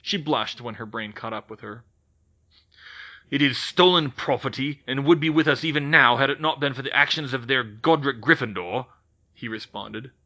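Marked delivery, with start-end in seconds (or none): 3.3-8.9 louder, gruff goblin retort; a lightly voiced goblin, bristling; goblin shooting back. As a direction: snap it back like an angry goblin. Brodig accuses Gryffindor.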